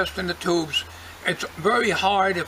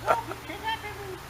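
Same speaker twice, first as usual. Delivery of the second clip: high squeaky puppet voice; 13 semitones higher, 8 dB quieter than usual. Pretend. Voicing the puppet Uncle Dorkel.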